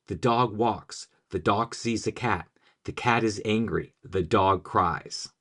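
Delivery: slow, simple storytelling; slow simple narration. Shown as a demonstration. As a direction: spell it out slowly for learners.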